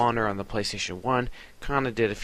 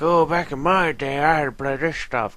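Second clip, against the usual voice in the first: mock grumpy old-timer, higher, louder; old gamer voice; 6 semitones higher, 6 dB louder than usual. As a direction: play the crusty veteran gamer. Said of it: "make this video of like".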